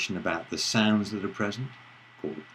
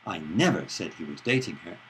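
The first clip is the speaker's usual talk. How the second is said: "never" punched with a falling tune; stress on never; 4 semitones lower than usual. Shown as a demonstration. Lecturer shows stress on "never" to students. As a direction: hit the word "never". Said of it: "depending on which word is stressed".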